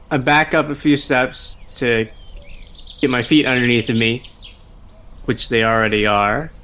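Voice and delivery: normal talking voice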